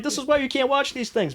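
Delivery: high-pitched retold dad lecture; father's mock scolding. Father telling off scared kid, high mock scolding.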